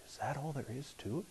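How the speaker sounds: hushed, breathless question; soft stunned whisper to the pastor. Retold or imitated. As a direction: whisper it in disbelief. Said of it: "whispered, I said".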